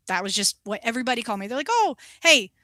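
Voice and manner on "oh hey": loud teasing call across the salon. Retold or imitated. Coworkers teasing the youngest: loud calling out. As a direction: sing it out like coworkers teasing the new girl.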